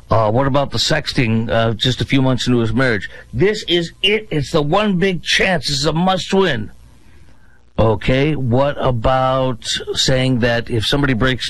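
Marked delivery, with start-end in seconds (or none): 3.3-6.7 mock desperate hype. Mocking Democrats' mantra.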